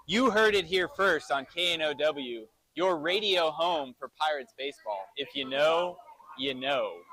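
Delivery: clean, assured radio tagline; station tagline done right. Real, not acted. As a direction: deliver the slogan without a stumble, pausing before the last "you know". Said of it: "I got it right that time".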